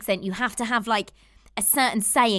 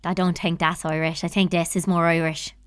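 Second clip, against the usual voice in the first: low, light mock Irish lilt; attempted Irish accent; 5 semitones lower than usual. Co-host jokingly proving what sounds more Irish, attempted Irish accent. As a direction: try on an Irish brogue. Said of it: "totally did an Irish accent".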